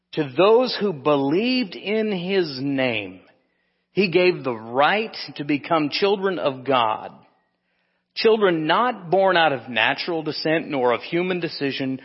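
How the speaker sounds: slow, emphatic Bible reading; scripture reading. Acted. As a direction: read the verse out deliberately, stretching key words. Reads scripture aloud emphatically.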